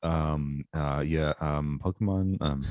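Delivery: lightly voiced low, halting caller; imitating the hesitant caller. Co-host mimicking the late-night voicemail caller, halting. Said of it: "It was like he was whispering".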